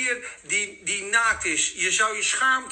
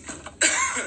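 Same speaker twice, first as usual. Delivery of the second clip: dry cough; 4 semitones higher than usual. Real, not acted. Dry studio air.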